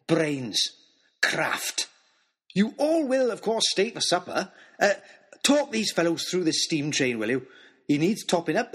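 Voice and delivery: put-on booming, delighted old giant greeting the boys; a big jovial old man, bursting with joy; jolly giant man. Christmas man voiced in story.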